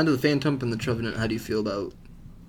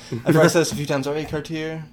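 louder, quicker and stronger; louder retake; 4 semitones higher, 5 dB louder, faster than usual. Shown as a demonstration. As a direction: punch it out again with energy.

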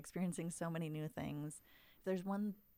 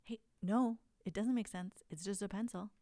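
dismissive parent; 4 semitones higher, 6 dB louder than usual. Retold or imitated. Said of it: "And when we say".

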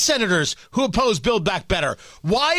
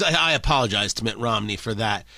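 quoting Reid; 10 semitones lower than usual. Retold or imitated. Harry Reid quoted, apologizing.

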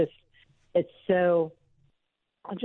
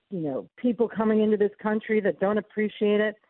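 lightly voiced Diamond, pitched up; retelling her story in a raised voice; imitating Diamond; 5 semitones higher than usual. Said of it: "she would say".

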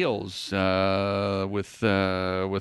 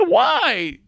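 laughing; 4 dB louder than usual. Real, not acted. Laughing at the mixup.

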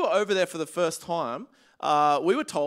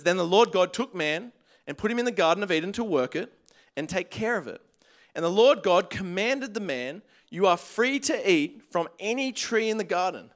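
scripture reading. Acted. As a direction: read it out deliberately to the church. Reads scripture to congregation.

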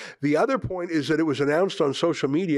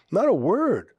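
indignant outcry; 7 semitones higher, 4 dB louder than usual. Real, not acted. Host scolding silent rights commissioners, raised indignant voice. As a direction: pitch jumps higher, louder, outraged.

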